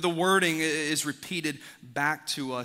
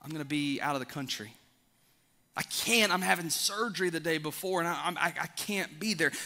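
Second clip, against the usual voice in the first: apologetic invitee; 2 semitones higher than usual. Acted. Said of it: "And they say".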